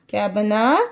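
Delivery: usual speaking voice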